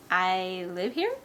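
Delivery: slow, wary answer lifting at the end; suspicious. Acted. Mother eyeing the two boys, suspicious. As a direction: draw it out with suspicion. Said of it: "looking at us suspiciously".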